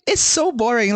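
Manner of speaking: high, animated griping; retold complaint. Retells own bored complaint.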